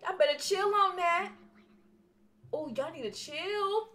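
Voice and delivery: loud high sassy protest; scolding the voices, loud and high; startled outcry. Real, not acted. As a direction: yell at the whisperers to chill. Startled outburst at whispering.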